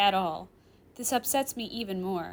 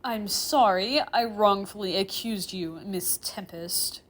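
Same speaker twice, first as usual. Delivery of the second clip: slow, grudging apology; reluctant, through gritted teeth; 5 dB louder, slower than usual. Acted. Professor apologizing to a student he accused, reluctantly. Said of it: "I reluctantly apologize through gritted teeth".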